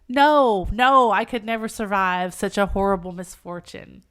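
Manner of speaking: loud, pleading declamation; impassioned heroine. Acted. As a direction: proclaim it fervently, hitting each phrase hard.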